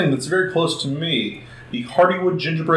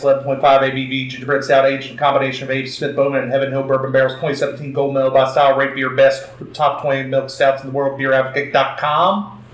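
auctioneer voice. Pretend. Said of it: "I'm trying to do my best, uh, auctioneer voice".

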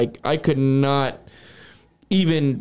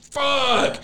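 exasperated dismay; 11 semitones higher than usual. Retold or imitated. Acting dismay at still being high.

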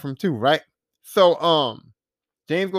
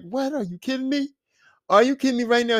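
can't believe what you just saw; incredulous; 4 semitones higher than usual. Retold or imitated. Viewer reacting to the bathroom grab, incredulous. Acted disbelief at the scene.

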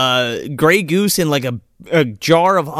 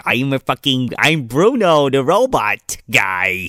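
Randy Quaid robot voice; slower than usual. Retold or imitated. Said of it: "and he talks like this".

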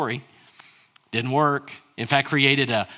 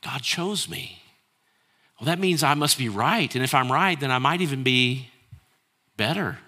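smug; 3 semitones higher than usual. Retold or imitated. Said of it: "the emphasis is all on the wrong place".

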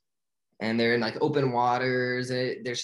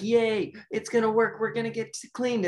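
much higher, giddy cheering; excited cheer; 11 semitones higher than usual. Retold or imitated. Tank fish thinking the plan worked, excited cheer. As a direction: squeal with delight like a little fish.

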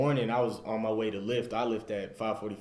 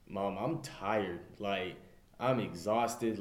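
quiet, slow and worn out, close to crying; tearful and tired; 4 dB quieter, slower than usual. Retold or imitated. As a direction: tell mom you're tired, near tears. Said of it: "I cried to my mom".

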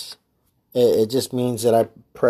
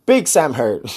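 another try; 2 semitones higher, 3 dB louder than usual. Shown as a demonstration. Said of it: "No, I don't say it like that either".

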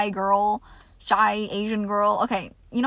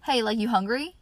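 casual sibling talk. Shown as a demonstration. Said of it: "you might use words like".

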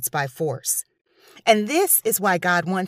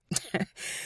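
short, hushed knowing laugh; soft chuckle; 11 dB quieter than usual. Real, not acted. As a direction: chuckle quietly at the hint. Chuckles after grim hint.

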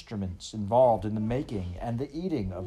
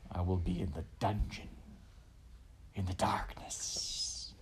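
muttering; 3 semitones lower, 8 dB quieter than usual. A narrator's reading. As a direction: mutter low, then whisper the last words. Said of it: "muttered Roscuro".

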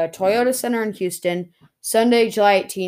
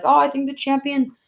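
Michael Cole; 6 semitones higher than usual. Retold or imitated. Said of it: "Michael Cole was like".

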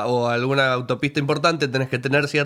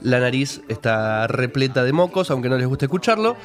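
stuffed-up nose from a cold; congested nasal voice, blocked nose. Real, not acted. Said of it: "Esta voz nasal, esta voz fea, nasal". (voz nasal de resfriado con la nariz tapada)

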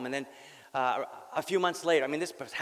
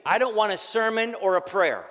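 gruff dying father; 6 semitones higher, 7 dB louder than usual. Retold or imitated. Dying father refuses son.

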